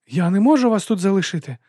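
high, loud outburst; desperate protest. A narrator's reading. Boy refusing to leave his injured master, desperate protest. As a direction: protest with pitch and volume soaring.

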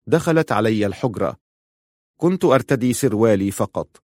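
usual speaking voice

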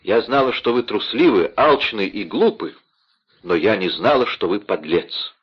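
rising fury at a coward husband; furious outcry. Acted. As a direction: cry out in contempt. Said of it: "вскричала молодая женщина". (гневно, с презрением)

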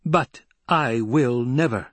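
high, forceful public proclamation, slowing at the end. A narrator's reading. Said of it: "Paul raised his voice".

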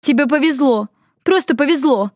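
high, pleading near-tearful scolding; upset, near tears. A narrator's reading. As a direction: hammer home how lucky he was.

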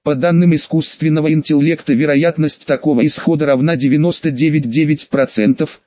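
playful mechanical robot voice. Acted. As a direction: read it like a joking robot. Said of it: "дурачись, голосом робота".

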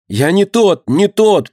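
howling cry. A narrator's reading. Beaten boy howls to the crowd, high wail. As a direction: bawl it out in terror. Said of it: "ревел мальчишка".

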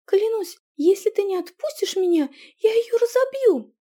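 high, loud defiant cry; shouted high threat, close to breaking; desperate threat. Acted. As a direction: threaten it with everything you have. Heroine threatens the voice.

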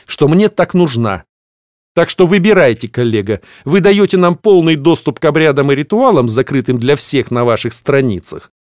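dark lord. Acted. Ominous threat continues.

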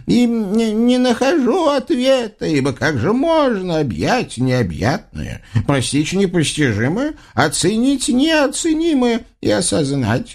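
high, lofty flattering praise; booming biblical narration. Acted. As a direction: marvel at the sultan's greatness.

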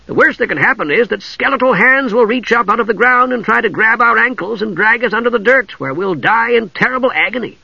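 high, sing-along relish of ghastly horrors; gleeful kender. A narrator's reading. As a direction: tell the horrors like a wonderful treat.

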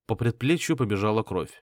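usual speaking voice

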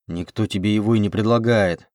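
usual speaking voice

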